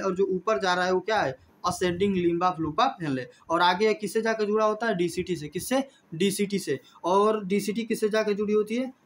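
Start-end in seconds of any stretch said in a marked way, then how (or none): 1.7-3.2 each word of the term drawn out slowly; slow dictation. Shown as a demonstration. Teacher slowly dictating the term to the class. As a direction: dictate it so students can write it down.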